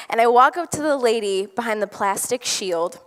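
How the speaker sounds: ordinary talk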